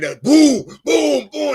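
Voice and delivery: loud, high-pitched booms; imitated speaker booms. DJ showing off his high quality gear, excited booms. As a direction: boom out the sound of the system. Imitates the booming sound system.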